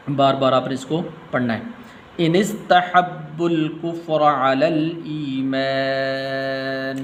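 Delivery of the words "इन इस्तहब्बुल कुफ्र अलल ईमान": slow melodic Quranic chant; Quran recitation. Shown as a demonstration. Teacher reciting the verse to students, measured chant. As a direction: recite the verse slowly with tajweed.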